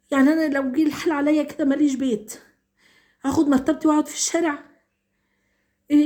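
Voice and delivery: holding back tears while begging for help; close to tears. Real, not acted. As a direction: let the voice rise and strain with emotion as if choking up. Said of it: "أنا حاسة مش قادرة أخد نفسي".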